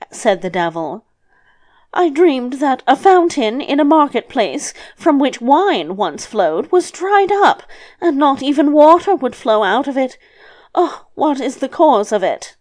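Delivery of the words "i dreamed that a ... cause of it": put-on higher, lilting old woman; a light, raised voice for the grandmother; lightly voiced grandmother. Grandmother telling the devil her dream, lightly voiced.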